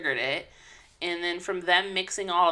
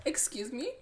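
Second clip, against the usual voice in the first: mock hurt; 7 semitones higher than usual. Joking hurt, leaving.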